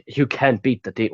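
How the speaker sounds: lightly put-on American accent. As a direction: slip into a mild American voice. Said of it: "I'm saying that in an American voice".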